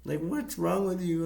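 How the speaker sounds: a hammed-up shove-off shout; mock disgusted yell. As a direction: yelp it like someone just got peed on. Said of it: "and like".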